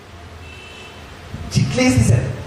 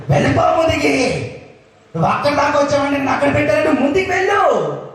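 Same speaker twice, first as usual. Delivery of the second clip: God's firm command; 5 semitones higher than usual. Retold or imitated. Preacher voicing God commanding his people forward, firm and raised. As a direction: speak as God urging onward, firm. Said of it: "దేవుడు ఈరోజు అంటున్నాడు".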